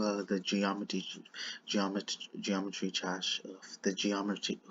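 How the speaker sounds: slight lisp on the consonants. Real, not acted. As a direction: speak with a lisp. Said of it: "sorry, my lisp".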